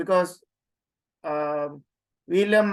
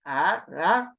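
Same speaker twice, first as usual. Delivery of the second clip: ah with the pitch going up; short rising ah; acute accent. Shown as a demonstration. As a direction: lift the tune on ah. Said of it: "remember the accent goes up".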